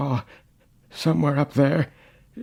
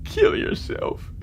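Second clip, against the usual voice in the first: urgent whisper; 4 dB quieter than usual. Acted. Old man urges young self.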